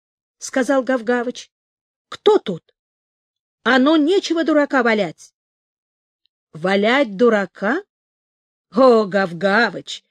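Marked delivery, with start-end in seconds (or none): 2.1-5.3 gruff suspicious watchdog; cartoon dog. A narrator's reading. Dog barks at intruder. 6.5-10.0 slow, sweet, grand fairy enticing. A narrator's reading. Fake fairy luring the dog.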